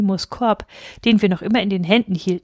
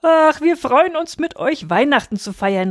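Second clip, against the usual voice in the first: cheerful calling out; 7 semitones higher than usual. A narrator's reading. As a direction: gush happily as the visiting aunt. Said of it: "rief sie fröhlich". (fröhlich ausrufen)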